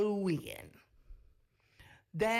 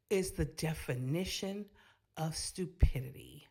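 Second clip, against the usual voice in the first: whispered aside; 4 semitones lower than usual. Real, not acted. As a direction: whisper of stupidity. Disapproving aside to viewers.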